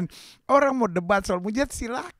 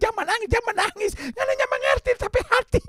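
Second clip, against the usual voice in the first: put-on Manado accent; 9 semitones higher than usual. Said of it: "kalau ibu itu orang Manado".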